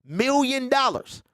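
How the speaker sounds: high, drawn-out mock villain; movie villain quote. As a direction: stretch it out like a hammy villain. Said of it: "with the pinky to the side of the mouth".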